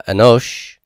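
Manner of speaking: anosh with the O stressed and lengthened; stress on final syllable. Shown as a demonstration. Teacher demonstrating a Hebrew word's accent, stressed on the O of anosh. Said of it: "The accent is on the O of anosh".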